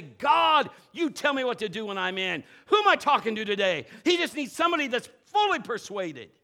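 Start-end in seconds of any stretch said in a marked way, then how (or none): 0.0-3.9 loud bold prayer. Retold or imitated. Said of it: "define the line and say".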